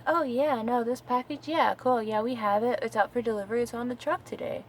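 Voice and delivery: upbeat retold customer-service reply; imitated breezy agent. Imitates breezy carrier phone agent.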